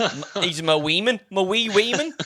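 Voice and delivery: lightly voiced boast about his wee man; mock proud boy. Imitating the boy in the bed, boasting about his girls. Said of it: "he must have been like".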